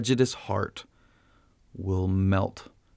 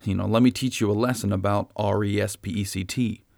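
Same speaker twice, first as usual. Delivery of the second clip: mock scolding. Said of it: "Jesus doesn't say".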